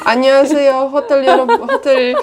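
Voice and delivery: bright fast Korean appeal; quick, laughing sales pitch; cheerful Korean pitch. Shown as a demonstration. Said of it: "po koreańsku powiedz".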